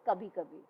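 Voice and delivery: soft, hesitant kabhi kabhi after a pause; pause before it. Retold or imitated. Wife pauses before admitting her love, softly. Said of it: "pause लेके बोलती है".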